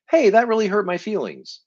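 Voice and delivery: demonstrating a calm honest statement of hurt; direct and honest. Shown as a demonstration. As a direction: say it simply to their face. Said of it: "look at somebody and say".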